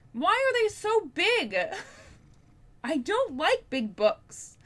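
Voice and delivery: high, slow, drawn-out complaint; mock exasperated whine. Real, not acted. Booktuber whining to viewers about massive books, high mock exasperation.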